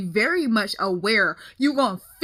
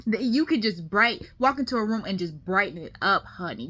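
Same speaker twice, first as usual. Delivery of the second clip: reassuring friend. Real, not acted. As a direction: comfort him, you're a light. Friend reassures him warmly.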